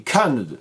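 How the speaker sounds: Canada stressed on CAN, last syllables blurred; swallowed ending. Shown as a demonstration. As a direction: hit CAN in Canada and mumble what follows. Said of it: "on ne sait pas ce qu'il y a après Can".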